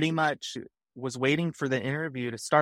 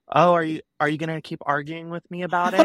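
imitating a challenging recruiter, pitched up; retold attitude; 4 semitones higher, 4 dB louder than usual. Recruiter challenging a candidate who argues, retold attitude. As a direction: throw it back with mock affronted attitude. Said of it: "giving me so much attitude".

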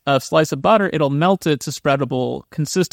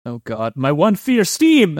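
mock terror; slower than usual. Albert pretending his one fear is steam, hammed-up. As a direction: ham up the panic, climbing to the last word.

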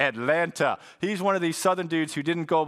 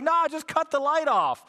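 higher Southern voice, lightly done; Southern roommate; 12 semitones higher than usual. Retold or imitated. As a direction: impersonate the roommate correcting him. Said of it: "He's like".

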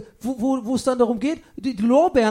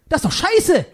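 laughing outburst; 3 semitones higher, 5 dB louder than usual. Acted. Punchline blurted with a laugh.

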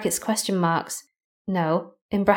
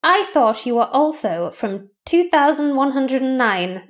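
second take; slower than usual. Acted. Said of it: "Shall I do that again?".

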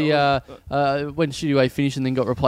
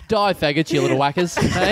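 John Blackman voice. Acted. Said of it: "John Blackman's back".

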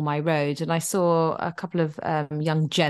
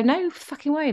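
indignant; 8 semitones higher than usual. Retold or imitated. Indignant thought at stolen pasta.

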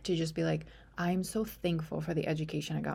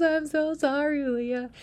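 apologetic doctor; 9 semitones higher, 5 dB louder, slower than usual. Retold or imitated. Doctor apologizing, voiced high.

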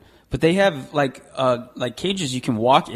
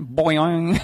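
boing sound. Shown as a demonstration. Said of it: "We have to come up with a good bleep".

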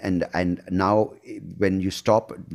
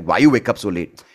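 a mildly sharp, critical jab, a touch louder; critical morning scold; 5 dB louder than usual. Retold or imitated. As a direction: nag lightly about sleeping in. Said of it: "sounding critical".

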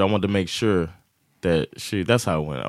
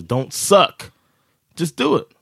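capital letters; 7 semitones higher, slower than usual. Shown as a demonstration. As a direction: say it like it's printed in capitals. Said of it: "it says in capital letters".

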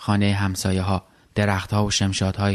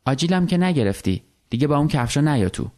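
lightly voiced wife, higher and a bit sharp; a hint of a nagging wife, pitched up; wife scolding her husband at the door, lightly voiced higher; Sara's voice; 5 semitones higher than usual. Wife Sara voiced in story.

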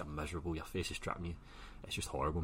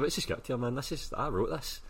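indignant; 8 semitones higher, 5 dB louder than usual. Retold or imitated. Confronting the guys about his script.

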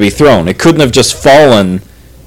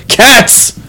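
retold calling out; 11 semitones higher than usual. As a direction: imitate a parent calling the kids.

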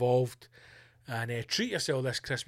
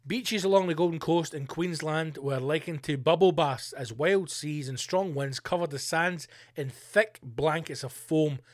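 normal talking voice

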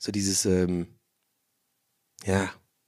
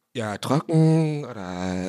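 slow, lower, know-it-all wine-seller voice; condescending drawl; 5 semitones lower, much slower than usual. Retold or imitated. Snobbish wine seller quizzing a customer, slow and condescending. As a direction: drag it out as if the customer should know. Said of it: "Diese Betonung".

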